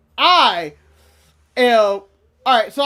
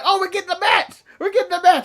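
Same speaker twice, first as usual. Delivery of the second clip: excited; 6 semitones higher than usual. Retold or imitated. Retold excitement at match.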